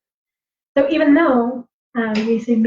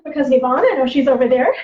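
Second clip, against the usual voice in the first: calling voice; 4 semitones higher than usual. Retold or imitated. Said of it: "But they would call out using this voice".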